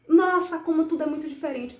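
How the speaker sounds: high, loud wondering gasp of a word; amazed wow. Acted. Teacher marveling at differences for children, amazed.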